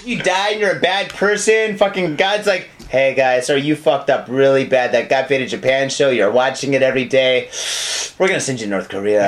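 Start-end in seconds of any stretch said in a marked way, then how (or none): 2.9-9.3 much lower, booming mock God; deep God voice.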